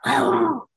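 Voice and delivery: storyteller's little dog cry; dog's mock yelp. A narrator's reading. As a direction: imitate a hurt dog, lightly. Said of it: "So he just went".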